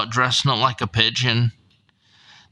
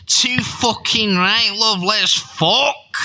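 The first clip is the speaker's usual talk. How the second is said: Kirky's eager voice; 10 semitones higher, slower than usual. Retold or imitated. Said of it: "And Kirky says".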